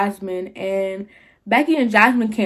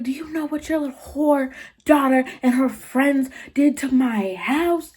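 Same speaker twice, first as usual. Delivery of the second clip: retold tirade at normal volume; mock screaming; 4 semitones higher than usual. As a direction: act out her angry demand, pitched up. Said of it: "she just starts screaming".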